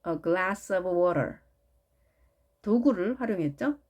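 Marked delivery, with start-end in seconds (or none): 0.1-1.3 a glass of water, very slow, each word spaced apart; carefully dictated English phrase; slow model phrase. Shown as a demonstration. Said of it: "예를 들자면".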